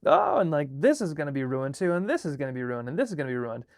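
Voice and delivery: a hint of a gloomy parent moaning that everything is ruined; whiny fretting parent. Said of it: "the parent is sort of, like, plodding along behind".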